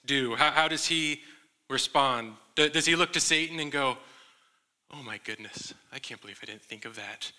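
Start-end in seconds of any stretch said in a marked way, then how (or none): 4.9-7.3 mock amazement. Mock Jesus tempted by Satan.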